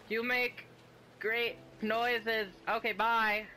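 mock your own awkward goodbye, voice squeaking up; embarrassed mock voice. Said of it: "You're like".

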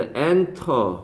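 "enter" with the first syllable stressed. Shown as a demonstration. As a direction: put the weight on the EN of "enter". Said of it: "강세가 앞에 온다".

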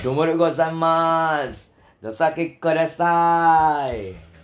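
slow, stretched Japanese greeting; lightly hammed-up Japanese politeness; mock Japanese accent. Host demonstrating Japanese greetings, mock Japanese accent. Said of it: "mga Japanese ka".

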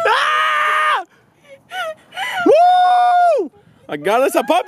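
very high, loud joyful whoop; whooping cheer. Real, not acted. Celebrating the puppy with girlfriend, whooping. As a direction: cheer at the top of your voice.

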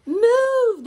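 high, loud storybook shout. A narrator's reading. Stunned knights to Boy in their path, high shouted command. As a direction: shout it as startled knights would. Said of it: "they shouted".

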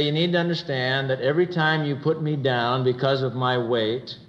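serious, sweet but firm. Shown as a demonstration. Wife telling husband his put-downs hurt, earnest gentle firmness. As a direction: tell him tenderly yet firmly how it hurts. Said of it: "very seriously and, and sweetly but firmly".

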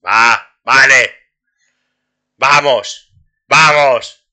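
loud, rising urgency, come on; real excited cheering at the screen. Real, not acted. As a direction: push the game on with loud bursts. Cheering as game finally works.

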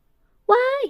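high shriek while slipping; falling shriek. A narrator's reading. Bride slipping off the bathtub, a high shriek. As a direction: cry out as she falls. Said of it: "เสียหลักพลัดตก".

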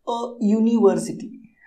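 slow "अ यूनिवर्सिटी", Y glide starting the noun; opening Y sound. Shown as a demonstration. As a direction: spell out "अ यूनिवर्सिटी" slowly with a clear य. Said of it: "यहाँ पर वाई यानी कि य". ("अ यूनिवर्सिटी" धीरे, य की आवाज़ से)

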